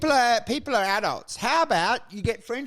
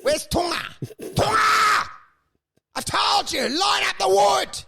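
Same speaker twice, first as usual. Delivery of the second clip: mock yell; 11 semitones higher than usual. Spoiled actor screaming at his cleaner, mock yell. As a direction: bark orders like a spoiled star.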